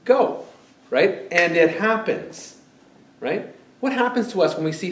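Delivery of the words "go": sharp, high, loud single-word command. Retold or imitated. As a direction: bark out "Go" like an order that ends all debate. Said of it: "with an exclamation point on the end of it".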